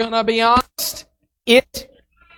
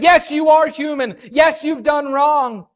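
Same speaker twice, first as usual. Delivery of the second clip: firm proclamation; 4 semitones higher than usual. Retold or imitated. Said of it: "But God said".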